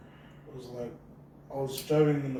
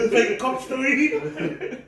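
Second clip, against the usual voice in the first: slow laughing; 10 semitones higher, 4 dB louder, much slower than usual. Real, not acted. Laughing at own story.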